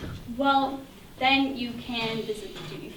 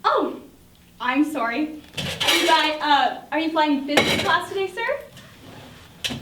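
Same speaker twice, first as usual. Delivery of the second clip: fake polite; 2 semitones higher, 4 dB louder, slower than usual. Agent's fake-polite upsell.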